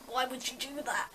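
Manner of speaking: soft, pained little whine; quietly wounded, hurt by the jab. Retold or imitated. Patient whining softly at the dentist after the jab.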